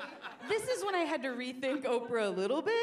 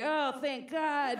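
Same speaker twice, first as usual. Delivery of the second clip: relieved; 4 semitones higher, 5 dB louder, slower than usual. Retold or imitated. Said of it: "we're all like".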